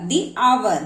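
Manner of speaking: "the" said as "dee" before hour; "the" pronounced "dee". Shown as a demonstration. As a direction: give "the hour" a clear "dee". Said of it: "टीएचई को दी पढ़ा जाएगा".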